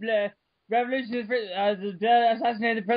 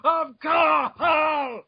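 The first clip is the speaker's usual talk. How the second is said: slow, loud overblown read; mock epic proclamation; hammed-up declaration; 6 semitones higher, 4 dB louder, much slower than usual. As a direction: ham it up like a trailer. Hammed-up reading, listener reacts.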